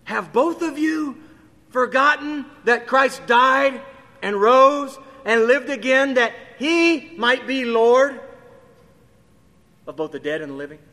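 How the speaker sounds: high, loud and slow, then falling away; preacher's slow, soaring plea; slow rising plea. Acted. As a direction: stretch each word out in pleading. Climactic scripture question, slow.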